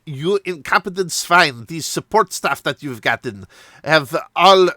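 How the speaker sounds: hammed-up outraged manager tirade; mock manager shout. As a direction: chew out the waiter as a snooty boss. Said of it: "shouting as, like, some manager at them".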